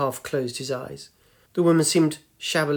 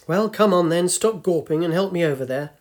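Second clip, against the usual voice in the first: put-on impatient old lady, a bit louder; bossy old woman; 4 semitones higher, 3 dB louder than usual. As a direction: hurry him along like a stern granny. Old woman orders him over.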